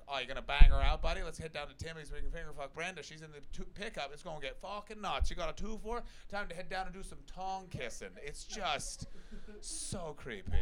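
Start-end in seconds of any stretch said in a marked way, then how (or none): 0.1-8.1 hammed-up small-town Ontario accent. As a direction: lightly exaggerate an Ontario buddy's accent. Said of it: "which has this even worse accent".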